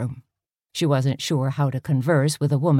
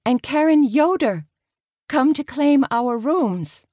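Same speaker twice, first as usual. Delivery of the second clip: put-on Pennsylvania Dutch accent; 10 semitones higher than usual. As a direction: keep the Pennsylvania Dutch lilt. Karen continuing the accent.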